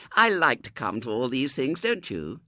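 high, loud lady's voice; chatty society lady. A narrator's reading. Lady chatting to Missus Brown, sociable high voice. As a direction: make sociable small talk in a lifted voice.

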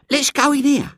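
put-on very high, loud, strident girl; bold girl. A narrator's reading. Eglantine at the iron gates, boldly urging. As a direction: order the gang in with a high shout.

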